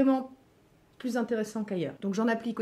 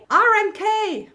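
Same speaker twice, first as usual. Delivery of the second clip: R M K en anglais appuyé, plus haut et plus fort; épeler R M K comme un Anglais, en forçant le trait; accent anglais exagéré; 10 semitones higher, 9 dB louder, slower than usual. Shown as a demonstration. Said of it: "on me reprend toujours sur mon accent anglais". (R M K à l'anglaise, haut et fort, en exagérant)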